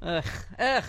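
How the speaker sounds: real groan of disgust, twice. Real, not acted. Host reacting to the new axis of evil, disgusted groan. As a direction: groan in revulsion. Disgust at war leaders named.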